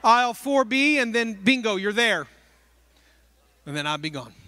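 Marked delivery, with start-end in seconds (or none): 0.0-2.3 fast, breezy fake directions; made-up directions. Worker to the lost shopper, quick breezy brush-off. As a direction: rattle off invented aisles to get rid of them. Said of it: "I would make up aisles".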